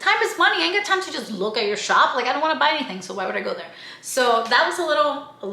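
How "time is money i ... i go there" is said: mildly exasperated brush-off; sassy retort. Retold or imitated. Her own sassy reply to the shopkeeper. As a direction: wave him off with attitude. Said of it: "I'm like".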